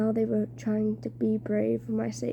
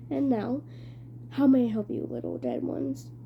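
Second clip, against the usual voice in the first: put-on strange British-ish accent; 2 semitones higher than usual. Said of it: "He had a strange accent, British, maybe?".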